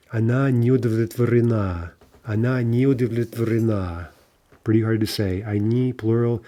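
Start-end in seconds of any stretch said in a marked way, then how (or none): 0.1-4.1 удовлетворена stressed on its final а. Shown as a demonstration. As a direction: carry удовлетворена through to a long stressed last а. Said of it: "It's gonna jump to the а".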